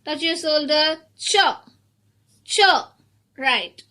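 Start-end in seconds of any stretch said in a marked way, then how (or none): 1.2-2.6 "Ch" as a short isolated sound; isolated digraph sound. Shown as a demonstration. Teacher asks children for the beginning sound, isolated "Ch". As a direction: give just the "Ch" sound, cut short. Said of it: "beginning digraph sound".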